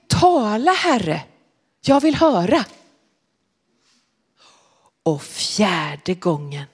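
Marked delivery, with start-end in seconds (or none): 0.1-2.6 put-on a touch higher, gently instructing old priest; Eli teaching the words. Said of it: "Och så sa Eli så här".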